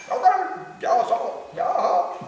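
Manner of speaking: placating yeah. Retold or imitated. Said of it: "And then we said".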